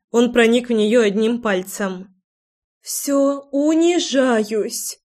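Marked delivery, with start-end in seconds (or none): 2.8-5.0 high, drawn-out moan of surrender. A narrator's reading. Лой gives in and humiliates herself, moaning high and slow. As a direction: moan it high, stretching the last word. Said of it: "застонала она".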